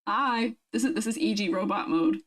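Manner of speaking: muffled, hollow bottle echo; into a water bottle. Pretend. Streamer testing her voice inside a water bottle, hollow and muffled. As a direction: speak right into the bottle's mouth. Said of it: "talk inside my water bottle".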